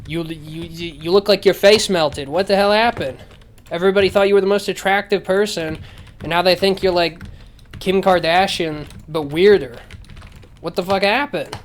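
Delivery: mock-incredulous rant. Viewer addressing the actress directly, mock-incredulous rant. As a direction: confront an absent star in exaggerated disbelief.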